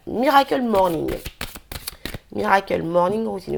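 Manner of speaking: English title said with a strong French accent; self-mocking French accent on the English words. Real, not acted. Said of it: "j'ai un accent anglais qui est magnifique".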